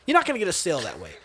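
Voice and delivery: mildly exasperated brush-off of a hovering salesman; annoyed. Retold or imitated. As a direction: grumble it as if fed up. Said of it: "but just annoyed".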